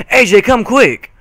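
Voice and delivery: little sister bursting in, calling her big sister urgently. Acted. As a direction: call her to come right now. Apple Bloom bursts in calling.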